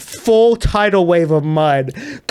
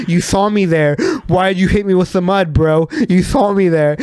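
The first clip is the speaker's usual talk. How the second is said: mock-indignant confrontation, slightly raised; mild retold anger. Mud-covered guy confronts the driver, mildly retold anger. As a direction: imitate an upset man confronting someone. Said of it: "this guy went from anger".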